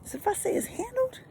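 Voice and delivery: high, ringing declaration of her word; emphatic promise. Shown as a demonstration. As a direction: say it like your word is your bond. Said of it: "I don't play about my word".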